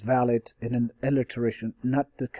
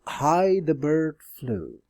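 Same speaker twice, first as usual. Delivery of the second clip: slow poetic reading; 3 semitones higher, slower than usual. Shown as a demonstration. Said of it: "poetry kind of thing".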